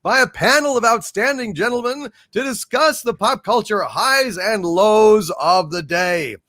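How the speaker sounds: grand show host announcement; booming villain host welcome; announcer intro. Acted.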